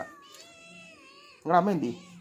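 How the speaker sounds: very high, very slow sing-song question; drawn-out high pet talk. Real, not acted. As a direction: croon it up high to the little ones. Baby talk to the pets.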